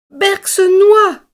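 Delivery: high, slow, loud alarmed cry; the tortoise screams for help; panicked cry. A narrator's reading. Tortoise Trouillette cries out that Berck is drowning. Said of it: "a crié Trouillette".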